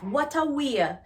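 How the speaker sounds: "What a way" lifted high in disbelief; incredulous. Shown as a demonstration. Teacher shows the incredulous tone of the phrase. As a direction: say "What a way" like you can't believe it. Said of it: "usually said in a tone of, in an incredulous tone".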